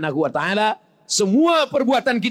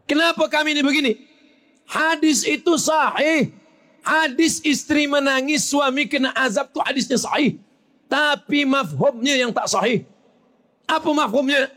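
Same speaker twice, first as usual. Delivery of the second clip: higher, emphatic preacher's voice; fervent preaching; 7 semitones higher than usual. Acted. Preacher stressing the hadith is sound, fervent. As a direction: press the point hard. Preacher rising to full force.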